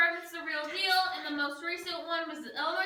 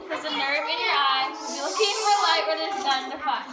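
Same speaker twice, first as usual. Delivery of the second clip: echoing in a dark cave; 4 dB louder than usual. Real, not acted. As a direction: voice ringing off stone walls. Guide in total darkness.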